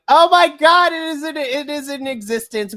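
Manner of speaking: high, loud thrilled gasp of disbelief; excited. Retold or imitated. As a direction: squeal it like a fan who can't believe it. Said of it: "I'm like".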